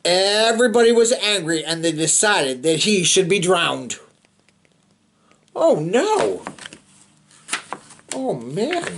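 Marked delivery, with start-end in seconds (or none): 0.0-4.0 put-on steady read-aloud narration for kids; storybook reading. A narrator's reading. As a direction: read it like a bedtime picture book. Reading picture book to children.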